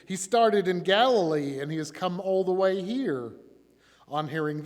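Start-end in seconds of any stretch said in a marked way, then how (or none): 0.1-3.3 higher, louder, emphatic insistence; insistent. A narrator's reading. Crowd answers Pilate about the prisoner, insistent. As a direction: press the charge hard. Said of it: "But they insisted".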